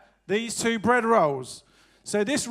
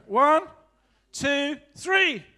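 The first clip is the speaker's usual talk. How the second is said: high count-in for the crowd; 4 semitones higher, much slower than usual. Shown as a demonstration. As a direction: count them in. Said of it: "say that after three for children".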